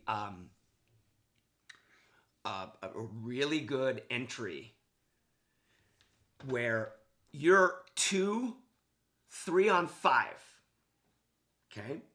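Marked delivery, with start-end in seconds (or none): 6.5-10.4 "two, three on five" drawn out slow, higher and louder; stress on two and three. Real, not acted. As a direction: lean hard on "two" and "three" to make the point. Coach stressing a numbers disadvantage.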